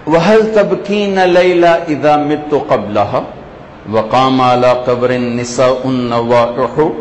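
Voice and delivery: measured, metrical poetry recital; Arabic verse recitation. Acted. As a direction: recite the classical verse in even cadence. (عربی شعر خوانی)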